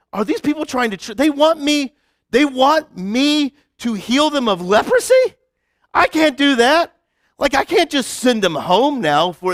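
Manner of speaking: lightly hammed-up frightened king; scared king. Pastor voicing the king of Israel in a panic.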